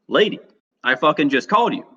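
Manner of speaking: exasperated inner protest, high on the first word. Retold or imitated. Jared silently protests to the old lady, retold exasperation.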